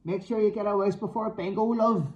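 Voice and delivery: cheeky parting shout. A narrator's reading. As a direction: shout it after her as she goes. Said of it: "I shouted at her".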